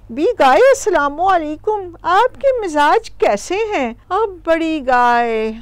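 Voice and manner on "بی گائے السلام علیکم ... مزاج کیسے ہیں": lightly voiced little goat, lifted pitch; courteous hello from a small goat; polite little goat greeting. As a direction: greet an elder politely, lilting up. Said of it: "پہلے سلام کریں۔ تو وہ پہلے کہتی ہے".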